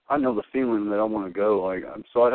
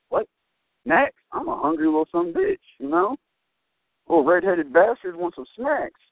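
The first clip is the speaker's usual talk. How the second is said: mock excited; 13 semitones higher than usual. Retold excited reaction to snacks.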